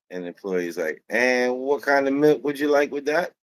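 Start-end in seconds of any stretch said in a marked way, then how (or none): 1.1-3.3 higher-pitched Jamaican employee; Jamaican accent. Retold or imitated. Employee serving a customer, light Jamaican accent. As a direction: lightly imitate a Jamaican server asking. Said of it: "he's Jamaican".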